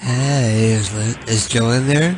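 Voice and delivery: put-on seductive voice. Prank calling, asking for joanne: seductive lesbian voice. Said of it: "Let me see if I can do a seductive lesbian voice".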